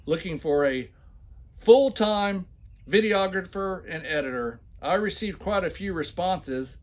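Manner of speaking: loud, hammed-up reading of the ad; mock emphatic reading. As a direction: read it like a pompous boss. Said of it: "when I put heavy accents and shout".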